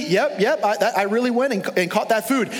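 high, breezy fake-casual reply; sneaky son. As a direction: brush it off like a liar. Acted father-son exchange.

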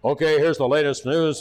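a hint of a booming newsman; big boy voice. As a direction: lightly puff up a radio announcer voice. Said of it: "it always uses big boy voice".

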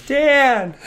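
high, drawn-out yell; calling out. Acted. Walking away still calling Dan, high long shout. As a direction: holler the name into the distance. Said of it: "I keep walking away going".

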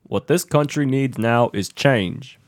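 slow, drawn-out Hank Hill preach; Hank Hill impression. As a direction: play Hank Hill selling change, slow and dry. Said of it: "You went Hank Hill there".

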